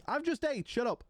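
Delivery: high-pitched, exasperated repeat; playful exasperation. Real, not acted. Streamer telling chat off for food talk, playfully exasperated. Protests being made hungry by chat.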